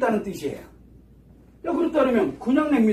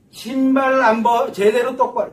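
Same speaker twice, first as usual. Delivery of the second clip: irritated nagging; 3 semitones higher, 4 dB louder than usual. Acted. Mother picking at how shoes were left, irritated nagging. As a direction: nag with mild, acted annoyance. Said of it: "그거 했다고 신경질 내고".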